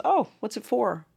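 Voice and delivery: high-pitched curious question; prying seatmate. Retold or imitated. Seatmate asking what the sleeve is for, curious.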